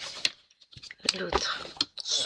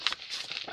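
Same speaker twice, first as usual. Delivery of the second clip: short real cough; 13 dB quieter than usual. Real, not acted. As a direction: clear the throat with a cough. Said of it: "je tousse encore".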